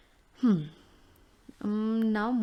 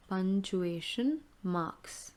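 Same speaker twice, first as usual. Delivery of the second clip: repeat slowly; slower than usual. Shown as a demonstration. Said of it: "teacher repeats term slowly".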